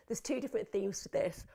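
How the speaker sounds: words stretched by a yawn. Real, not acted. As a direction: speak through a yawn. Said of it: "I'm yawning".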